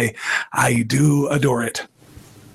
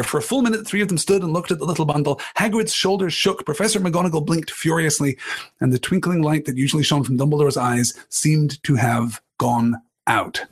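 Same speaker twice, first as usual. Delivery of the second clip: quicker rereading of the passage; rereading narration. A narrator's reading. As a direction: reread it to savour the beat. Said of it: "The last part of that penultimate paragraph".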